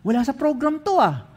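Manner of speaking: puzzled aside. Retold or imitated. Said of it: "Sabi ko". (nagtatakang tanong sa sarili)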